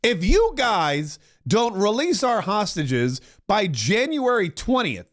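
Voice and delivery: a hint of Trump laying down an ultimatum, slowing right down for all hell; Trump impression. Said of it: "And he goes".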